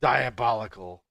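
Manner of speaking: light mock-British echo; British impression. Friend echoing another's word, British impression. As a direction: copy the British pronunciation playfully. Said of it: "some more British impression".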